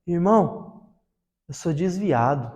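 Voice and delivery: low, soft, slow admission; low-voiced confession. Stranger in the van admits he left the church, low and subdued. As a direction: own up quietly, slowly, voice dropped. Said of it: "e falou assim".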